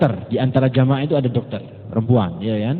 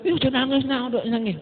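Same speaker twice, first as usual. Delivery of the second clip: higher, softer acted hushing; mock soothing mother; 8 semitones higher, 6 dB quieter, faster than usual. Mother to panicking, crying baby, lightly acted soft high soothing. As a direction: lightly play a mother shushing her baby.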